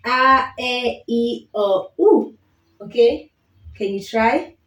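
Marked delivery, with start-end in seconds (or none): 0.1-2.4 the five vowels said clear in a row; Swahili vowels. Shown as a demonstration. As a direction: model vowels for home practice. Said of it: "give you a second to try".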